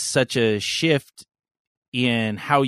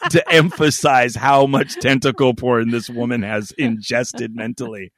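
lowered voice; 4 dB louder than usual. Pretend. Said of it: "I wish my voice could go lower".

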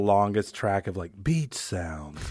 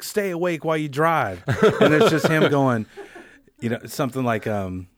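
laughing imitation; 2 semitones higher, 3 dB louder, slower than usual. Laughing imitation of Todd Glass.

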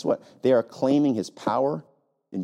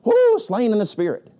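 high, louder hammed-up preacher cry; mocking preacher; 9 semitones higher, 5 dB louder than usual. Pastor mocking slain-in-spirit preachers, loud hammed-up cry. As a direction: whoop it like a showman healer.

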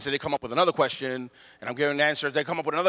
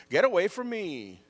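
put-on annoyed older sibling; 3 semitones higher than usual. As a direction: lightly act a big kid shooing a sibling. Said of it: "older siblings will tell their younger siblings".

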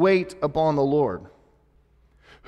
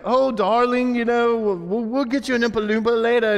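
higher-pitched mock British daddy; placating father; 6 semitones higher than usual. Father putting off Veruca's demand, high placating voice. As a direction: soothe a demanding daughter in a put-on voice. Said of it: "And he was always like".

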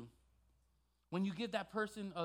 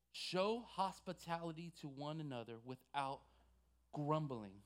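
slow, deliberate verse reading with spaced-out words; 3 semitones lower than usual. Shown as a demonstration. Preacher repeating the verse for some of us, very slow. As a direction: spell it out slowly, pausing before grumbling. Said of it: "very slow for some of us".

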